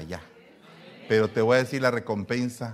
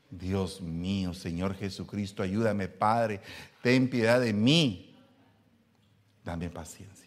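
mock desperate prayer; 3 semitones lower, slower than usual. Husband begging God for patience, mock plea. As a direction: pray as if at the end of your rope.

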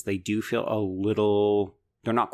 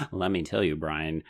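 dry, lower delivery as if sarcastic; mock-knowing, sinking lower at the end; unintentionally sarcastic; 4 semitones lower than usual. Real, not acted. Telling Brian it's a chosen one narrative, sounding sarcastic. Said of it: "it sounded like I said it sarcastically".

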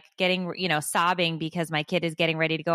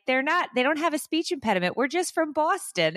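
retold retort; 9 semitones higher than usual. Quoting herself, high emphatic voice.

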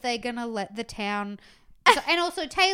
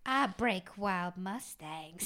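put-on slow, deadpan little country girl; little girl brag; 3 semitones lower, 4 dB quieter, much slower than usual. Retelling a little girl boasting to the camera, slow and deadpan. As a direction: say it slow and dead serious. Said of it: "says to the camera".

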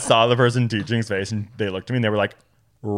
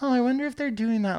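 retold wondering; 10 semitones higher, 6 dB quieter, faster than usual. Quoting own idle wondering aloud.

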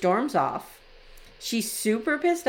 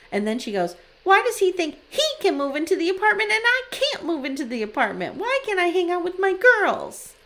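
mock angry whine; 6 semitones higher, 3 dB louder than usual. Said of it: "channeling my fifteen-year-old daughters here".

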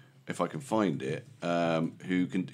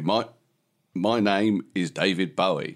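slow, lightly Cockney impression of a singer; slower Cockney; slower than usual. Shown as a demonstration. Host testing the impression method, slow Cockney. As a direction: keep it Cockney but take it slower. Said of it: "slightly slower and slightly more clipped".

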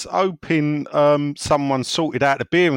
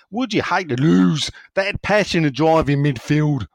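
put-on Aussie accent; 3 semitones higher, 3 dB louder than usual. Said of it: "Aussies, their voice goes higher at the end".

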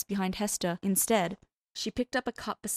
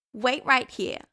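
higher, louder, rushed chatter; bubbly girl; 5 semitones higher, 5 dB louder than usual. A narrator's reading. Hester telling Cass to wait while she fetches drinks, quick and bubbly. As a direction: hurry off eagerly.

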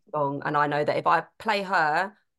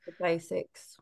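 soft breathy aside; whispered aside; 2 semitones lower, 6 dB quieter, slower than usual. Real, not acted. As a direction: whisper it under her breath. Aside while S2 talks.

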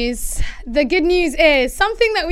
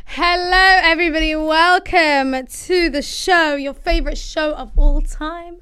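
mock host; 4 semitones higher, 4 dB louder than usual. Mock host opening the show.

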